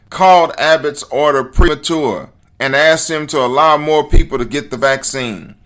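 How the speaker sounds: normal talking voice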